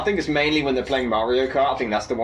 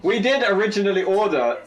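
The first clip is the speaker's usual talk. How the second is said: high, drawn out through laughter; words squeezed through a high laugh; 8 semitones higher, slower than usual. Real, not acted. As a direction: talk while cracking up. Still laughing at the costume.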